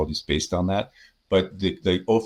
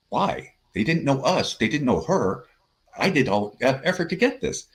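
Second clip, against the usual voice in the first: indignant why; 7 semitones higher than usual. Retold or imitated. Retold outrage at sales manager.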